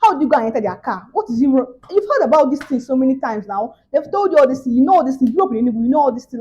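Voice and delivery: mildly angry imitated mother's scolding. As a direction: imitate mom telling you off, insistent. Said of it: "She was so angry".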